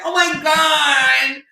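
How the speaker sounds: mock a starstruck fan who got a shout-out; hammed-up giddy fan voice; gushing fangirl. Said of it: "she'd be like".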